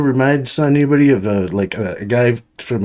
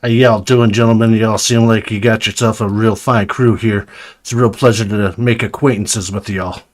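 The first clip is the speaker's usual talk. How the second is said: put-on Brooklyn accent. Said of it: "Brooklyn accent here".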